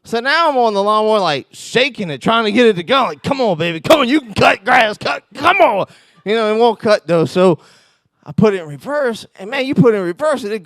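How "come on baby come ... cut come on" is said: put-on high, loud pleading with the machine, come on baby; coaxing the mower. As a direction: beg the stuck mower to cut, pitched up and louder. Coaxing stalled lawnmower.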